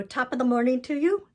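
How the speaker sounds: a quick, half-hearted Irish lilt for the holiday; playful attempt at an Irish accent; bad Irish accent. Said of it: "No, I'm not good at the Irish accent".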